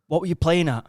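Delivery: mock bollocking from an exasperated father; dad's telling-off. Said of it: "my dad starts bollocking me".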